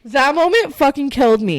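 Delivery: emotional, pitched well up; overcome. Real, not acted. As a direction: confess it as if wounded. Overcome by the movie scene.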